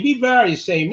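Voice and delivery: teasing Cowboys fans, mock scolding. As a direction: shame them with a playful sing-song.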